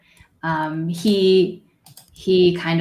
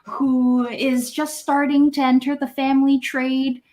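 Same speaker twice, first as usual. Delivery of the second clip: proud grandfather; 5 semitones higher than usual. Acted. Old man tells strangers his grandson carries on the trade. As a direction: boast about the grandson gently.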